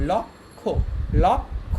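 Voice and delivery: লক্ষ split as lok, pause, kho; teacher's careful lok-kho for লক্ষ; syllable-by-syllable pronunciation. Shown as a demonstration. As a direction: sound out লক্ষ with a held break before kho. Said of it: "এটার উচ্চারণ হচ্ছে ক".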